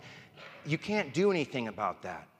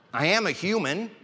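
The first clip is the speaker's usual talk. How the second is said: said through a laugh, a bit louder; laughing admission; 6 semitones higher, 6 dB louder than usual. Real, not acted. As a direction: laugh it off and own it. Laughing admits his flaws.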